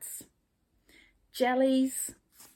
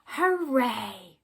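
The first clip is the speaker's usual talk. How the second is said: cheer; 2 semitones higher, 4 dB louder than usual. Acted. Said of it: "they all cheered".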